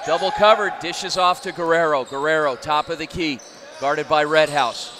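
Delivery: energetic live basketball call; play-by-play. Acted. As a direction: call the action as it happens.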